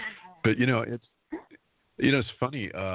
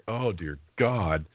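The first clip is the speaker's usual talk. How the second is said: retold panic; slower than usual. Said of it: "It was like".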